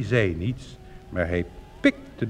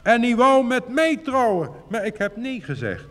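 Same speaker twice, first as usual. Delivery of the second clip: lively exclamation, a touch raised; exclaiming; 10 semitones higher than usual. A narrator's reading. Sweetheart frog tells her lover the old frog came, exclaiming. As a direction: call it out in surprise. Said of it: "riep ze uit".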